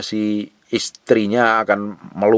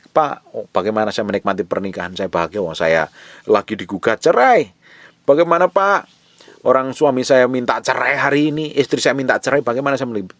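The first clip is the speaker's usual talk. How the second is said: higher, louder pleading questions from a desperate member; upset congregant; 5 semitones higher, 5 dB louder than usual. Acted. Wife facing divorce pleads with the pastor, higher and louder. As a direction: plead with the pastor, voice climbing on Bagaimana, Pak.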